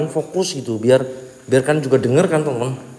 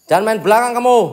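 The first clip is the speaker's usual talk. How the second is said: higher, louder dare; taunting the ghost to face him, higher and louder; angry challenge; 5 semitones higher, 3 dB louder than usual. Real, not acted. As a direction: push the dare harder at the ghost. Repeats challenge more forcefully.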